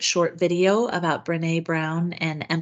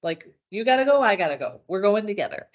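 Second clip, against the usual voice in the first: agitated mom; faster than usual. Retold or imitated. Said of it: "maybe your mom is, like, amplified".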